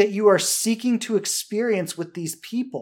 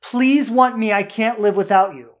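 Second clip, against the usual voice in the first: desperate pleading; 3 semitones higher, 4 dB louder than usual. Retold or imitated. Coach voicing a desperate partner, pleading. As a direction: beg like someone who can't be left. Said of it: "Desperation says".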